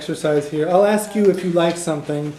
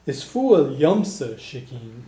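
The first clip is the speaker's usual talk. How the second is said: slow, with weight on "yumsa"; emphatic Irish form; 2 semitones lower, slower than usual. Shown as a demonstration. Teacher showing the contrast with the other guy, emphatic "yumsa". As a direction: lean on "yumsa" and stretch it. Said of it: "add sa at the end ... make it more emphatic".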